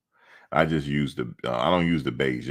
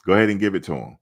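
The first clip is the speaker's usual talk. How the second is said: louder, more insistent; emphatic; 4 semitones higher, 4 dB louder, much faster than usual. Real, not acted. Fan insisting the Heisman go to Shedeur, louder. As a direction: push it harder the second time.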